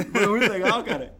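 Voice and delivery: loud laughing burst. Real, not acted. Rindo ao contar a conversão. (gargalhando alto)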